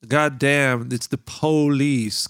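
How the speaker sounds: slow, drawn-out Southern American drawl; Southern US accent. Shown as a demonstration. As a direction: play a Southern US cop. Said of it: "ובמקום אחר".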